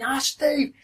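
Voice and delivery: retold excited welcome from an old castmate; delighted greeting. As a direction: imitate a friend spotting you across the crowd with joy. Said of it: "He went".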